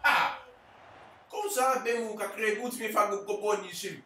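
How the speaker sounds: loud, high urging at the players; urging shout. Real, not acted. Gamer yelling at his attackers to shoot, loud and high. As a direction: yell them forward, willing the attack on.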